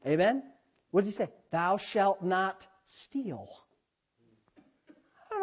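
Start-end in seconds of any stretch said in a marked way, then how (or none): 1.5-3.5 slow, softer, measured decree; solemn commandment. Acted. Pastor reciting God's law to the congregation, slow and solemn. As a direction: space the words out gravely.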